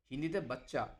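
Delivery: বাচ্চা said the Hindi way, with a short central vowel; Hindi pronunciation. Shown as a demonstration. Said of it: "উচ্চারণের ফারাকটা দেখুন".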